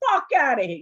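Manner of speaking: mock shout.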